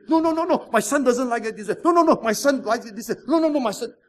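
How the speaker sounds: high, mock-fussy mother objecting. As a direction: play the meddling mother. Mother voiced objecting, laughing.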